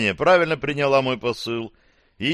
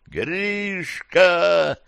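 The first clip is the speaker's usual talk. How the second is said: yelling; 8 semitones higher than usual. Acted. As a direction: shout the name at full voice. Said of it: "заорал я во всю дурь".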